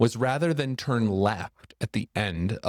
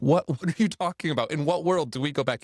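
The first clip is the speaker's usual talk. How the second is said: incredulous disbelief; 6 semitones higher, faster than usual. Retold or imitated. Friends balk at going back.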